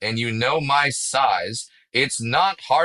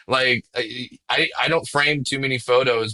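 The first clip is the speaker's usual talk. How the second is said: ordinary talk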